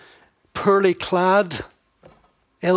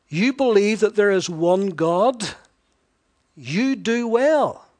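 slow, drawn-out dry sarcasm; sarcastic; 3 semitones higher, 4 dB louder, slower than usual. Acted. Preacher voicing James mocking belief without works, slow sarcasm. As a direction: praise that is really a jab, slowly. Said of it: "he's a wee bit sarcastic here".

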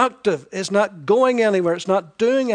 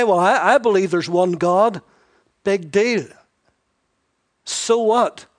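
loud smug claim then a scoffing "so what"; dismissive; 2 semitones higher, 6 dB louder than usual. Retold or imitated. Preacher playing a smug believer, then scoffing. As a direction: brush off a proud boast.

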